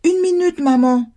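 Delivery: put-on high sing-out little-girl reply; child calling back. A narrator's reading. Daughter at play answers her mother, calling back. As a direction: put mom off from afar, high. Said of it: "La réponse était également familière".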